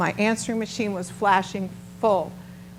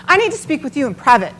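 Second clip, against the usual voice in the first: urgent request; 5 semitones higher, 7 dB louder than usual. Retold or imitated. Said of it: "And she goes".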